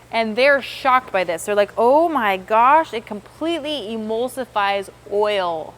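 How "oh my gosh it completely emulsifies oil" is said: slow, drawn-out gasp of wonder, then hushed awe; enthusiastic amazement. Shown as a demonstration. Sales trainer demoing a shocked customer, slow amazed awe. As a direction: show the customer how amazed they should sound. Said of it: "look how enthusiastic I am about that".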